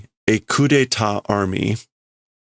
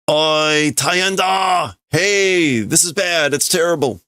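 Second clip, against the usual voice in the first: mock alarm; 7 semitones higher, slower than usual. Alarmed guard reading game text.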